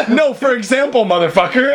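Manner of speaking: retold comeback through laughter; laughing retort. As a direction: laugh through an exasperated mock reply.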